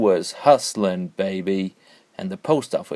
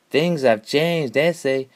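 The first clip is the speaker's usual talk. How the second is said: sighing; 5 semitones higher, slower than usual. Acted. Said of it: "the taller one sighed".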